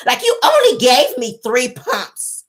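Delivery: slow, drawn-out mock complaint. Mel complaining to Martell, slow. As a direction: drag it out to shame him.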